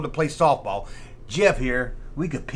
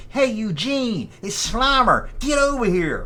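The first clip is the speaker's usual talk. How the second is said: higher put-on ghost voice; goofy higher ghost calling over the radio; Slimer voice; 7 semitones higher, slower than usual. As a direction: play Slimer calling his buddy. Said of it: "pick this thing up and say".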